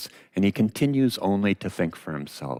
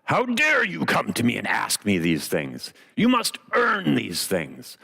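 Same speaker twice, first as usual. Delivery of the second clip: lightly voiced stern wizard, slowing on the command; scary mean wizard. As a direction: rebuke them like a mildly menacing wizard. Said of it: "as a scary, horrible, and, uh, mean guy".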